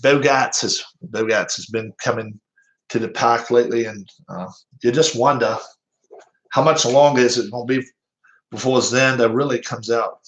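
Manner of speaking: put-on rough Boston-accented baseball commentary; Jerry Remy Boston accent. Streamer calling a batter's slump, amateur Boston accent. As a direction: attempt a Boston sportscaster, dropping the Rs. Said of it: "I'll try my best, Jerry Remy".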